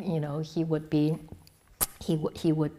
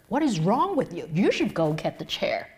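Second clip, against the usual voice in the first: imitating a scolding; 6 dB louder than usual. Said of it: "Master Sheng Yen scolded me".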